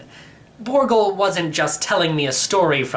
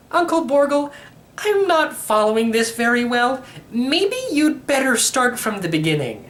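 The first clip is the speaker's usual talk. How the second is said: put-on higher, bewildered young boy asking; a lost kid begging for clarity; confused boy; 10 semitones higher than usual.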